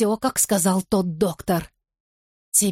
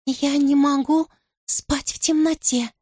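creepy whisper; 7 semitones higher than usual. A narrator's reading. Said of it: "И оно шепчет мне на ухо".

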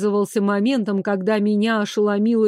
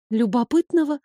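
puzzled question; 4 semitones higher than usual. Acted. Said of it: "в недоумении".

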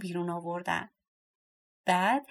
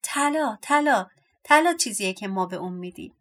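excited cry; 4 dB louder than usual. Acted. Dwarf atop the box announcing gold, mild shout. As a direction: call it out as a gleeful announcement. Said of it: "فریاد زد".

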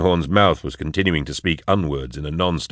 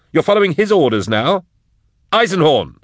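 raised frantic voice; alarmed companion shouting, higher; 12 semitones higher than usual. Acted. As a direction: yell at him to stop. Drusha shouting at Eisenhorn.

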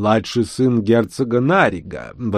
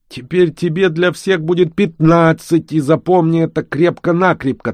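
firm; 8 semitones higher, 4 dB louder than usual. A narrator's reading. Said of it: "твёрдо сказал барон".

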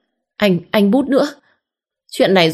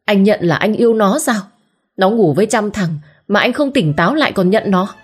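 growling fury; 5 semitones higher than usual. Acted. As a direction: snarl at him in rage. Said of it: "gầm gừ". (Diệu tức điên gầm gừ với chồng)

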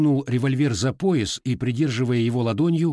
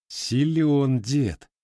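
approving chuckle; 5 semitones higher, much slower than usual. A narrator's reading. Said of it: "одобрительно хмыкнул".

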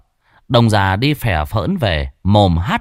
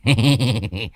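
sheepish chuckle. Acted. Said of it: "Lão Đồng cười cười".

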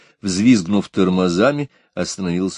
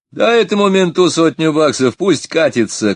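higher and louder, yelled at the cop; drunken shout; 9 semitones higher, 5 dB louder than usual. A narrator's reading. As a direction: bark it out like a cocky drunk kid. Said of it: "крикнул самый молодой и пьяный".

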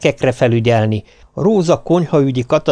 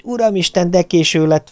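higher alarmed cry of lateness; startled exclamation; 6 semitones higher than usual. Retold or imitated. Wife realises she is late, higher and alarmed. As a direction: gasp it out as you realise the time. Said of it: "felkiáltás".

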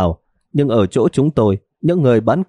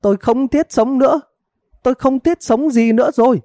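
high, theatrical wailing lament; hammed-up wife's tearful complaint; 14 semitones higher than usual. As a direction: wail like a wronged wife, pitched far up. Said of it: "Bà vợ lặp đi lặp lại câu kia".

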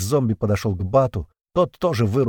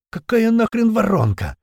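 rasped, strained question, pitched high; a big man croaking through the radio in pain; hoarse wheeze over radio; 12 semitones higher than usual. A narrator's reading. Big guy rasping into the radio, mildly hoarse. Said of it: "прохрипел в ответ в рацию".

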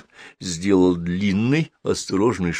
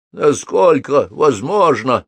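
медленно, высоко и жалобно; поскули, как испуганный огонь; скулит; 5 semitones higher, 4 dB louder, slower than usual. A narrator's reading. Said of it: "проскулил он". (жалобное поскуливание)

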